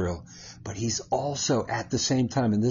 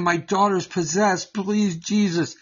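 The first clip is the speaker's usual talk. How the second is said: a lightly voiced pleading woman, higher; 6 semitones higher than usual. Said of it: "coming to Jesus and saying".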